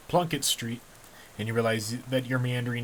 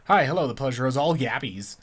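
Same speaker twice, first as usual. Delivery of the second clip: louder, bright-toned greeting; perky goblin; 3 semitones higher, 7 dB louder than usual. Acted. Goblin greeting the new recruit, perky and loud. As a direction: greet like an eager little goblin.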